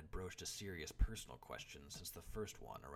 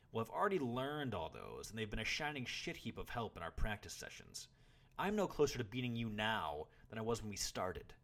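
loud, high frustrated complaint; boy's heated grievance; complaining; 5 semitones higher, 7 dB louder than usual. A narrator's reading. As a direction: protest hotly to your teacher. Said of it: "the boy complained".

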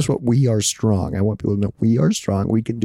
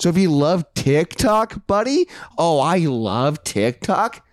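hyped promo; 6 semitones higher, slower than usual. Acted. Hosts pitching TikTok to listeners, hyped and hammy. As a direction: pitch jumps high on buddy, oh.

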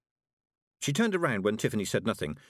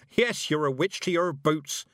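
put-on amused old witch; 7 semitones higher, 4 dB louder than usual.

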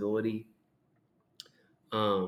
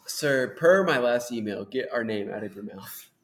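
politely impatient. Pretend. Voicing an exasperated email.

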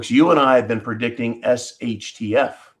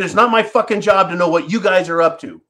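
nasty retort; 5 semitones higher, 4 dB louder than usual. Retold or imitated. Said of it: "I just got really nasty with him".

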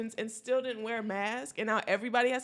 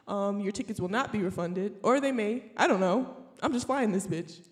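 pilot announcement. Pretend. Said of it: "do you have an attendant voice, like a pilot voice".

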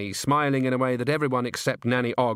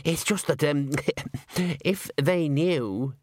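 halting, drawn-out confession; slow, unsure, breaking off between words; uncertain; 5 semitones higher, slower than usual. A narrator's reading. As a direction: trail through it with nervous hesitation. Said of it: "waved his hands uncertainly".

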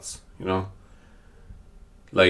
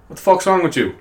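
higher, exasperated outburst; mock outrage; 9 semitones higher than usual. Reacting to a lol text about a dead nana, mock outrage. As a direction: snap at a clueless texter in mock disbelief.

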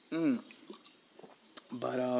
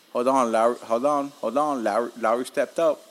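louder, excited calling of the play; excited cheer; 5 dB louder than usual. Real, not acted. Interrupting his story to cheer on Lowry, excited. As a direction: cut yourself off, excited by the game. Reacts to live game.

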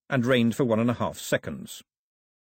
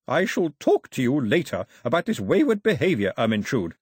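higher, imperious scolding; stern grandmother; 3 semitones higher, 4 dB louder than usual. Acted. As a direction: reprimand her with haughty severity.

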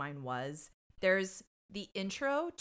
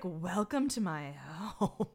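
slow, stretched-out welcome, mildly imitated; lightly voiced drunk hostess; much slower than usual. Podcaster imitating a character, slow mock-drunk welcome. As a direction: imitate a tipsy hostess, drawing out the words. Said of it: "read her performance as shit-faced".

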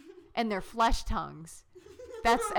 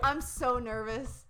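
mock nerves; 4 semitones higher, slower than usual. Mock nervousness.

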